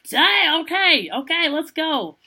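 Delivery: high-pitched, hyped-up mock agreement; retold eager acceptance. Teller replays answering her guide's call to go, hyped-up acceptance.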